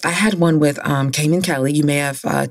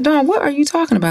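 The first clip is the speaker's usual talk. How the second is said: friend's voice; 10 semitones higher, faster than usual. Retold or imitated.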